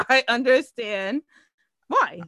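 laughing through words. Real, not acted. Laughs at own joke.

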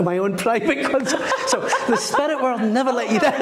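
laughing while telling. Real, not acted. To the host about his private concert, laughing. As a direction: let the laugh spill into the words.

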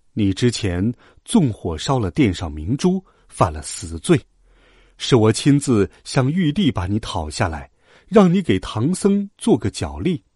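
low, composed authority; reproving Bodhisattva. Acted. Voices Guanyin reproving the dragon.

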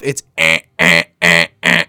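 low, loud buzzing eh eh eh; alarm beeping imitation. Shown as a demonstration. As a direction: mimic a harsh alarm buzz. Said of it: "when it goes off".

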